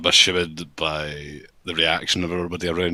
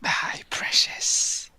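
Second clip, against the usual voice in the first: whisper; much slower than usual. Acted. Talks to the dice roll.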